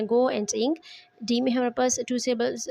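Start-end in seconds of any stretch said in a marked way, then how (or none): 0.0-0.7 "go and ing" as two separate syllables joined by "and"; split into syllables. Shown as a demonstration. Teacher breaking going into two, split into syllables. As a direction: give each half of "go and ing" its own beat. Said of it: "इसमें टू syllables हैं".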